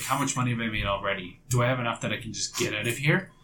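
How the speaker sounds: quiet, hurried anxious thinking; understated acted fretting, quick and hushed; freaking out. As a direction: rush it softly, as panicked inner thoughts. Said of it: "And she's freaking out".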